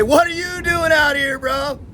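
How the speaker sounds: high-pitched imitation of an English soldier; incredulous British squaddie, hammed up; mock English accent. Imitating English soldiers greeting him.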